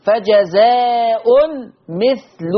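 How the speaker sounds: slow فجزاء with -un, مثل with -lu; long aa in فجزاء, u on the lam of مثل; Hafs reading. Shown as a demonstration. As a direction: say فجزاء مثل as "fajazaa'un, mithlu". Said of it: "بضم اللام مثل".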